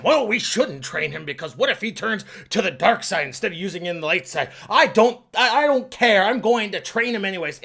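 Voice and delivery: a hint of a stubborn teacher arguing; mock stubborn argument. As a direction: dig in against the doubter. Second figure arguing back.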